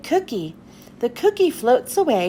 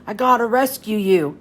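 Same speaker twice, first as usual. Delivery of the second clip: low gruff villain resolve; a gruff pirate deciding to help; Pete voice; 4 semitones lower than usual. Acted. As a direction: Pete promising to free Cutles. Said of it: "says Pete".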